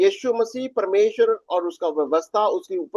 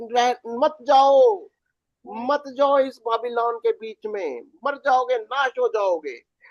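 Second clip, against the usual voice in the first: the Lord pleading; 3 semitones higher than usual. Retold or imitated. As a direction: voice the Lord urging his people to stay away. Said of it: "कहता है". (प्रभु की हल्की सी विनती भरी पुकार)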